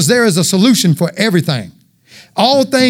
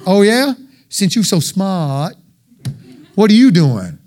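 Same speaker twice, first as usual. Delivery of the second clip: sassy retort; slower than usual. Retold or imitated.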